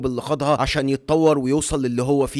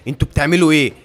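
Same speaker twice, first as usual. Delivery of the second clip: loud, indignant outcry; shout; 2 semitones higher, 7 dB louder, faster than usual. Acted. Claus shouting at guards seizing his goods, loud. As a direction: yell at the guards taking his cart. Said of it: "بيصرخ قائلًا".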